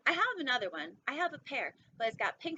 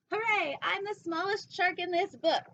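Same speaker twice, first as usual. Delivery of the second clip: higher, louder hooray; a bright loud celebration, higher and louder; cheering; 6 semitones higher, 6 dB louder than usual. Acted. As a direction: cheer like a proud little shark. Cheering small shark.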